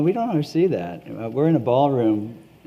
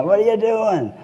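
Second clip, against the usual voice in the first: higher, louder imitation of a Maine accent; 9 semitones higher, 4 dB louder than usual. Voter questioning a collector at farmers market, Maine accent. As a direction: call it out like a Maine local. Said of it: "I love that accent".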